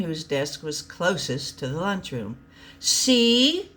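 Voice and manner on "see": high, louder accusing "See?"; sharp accusing exclaim. Acted. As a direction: point the finger and exclaim. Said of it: "Henry would exclaim".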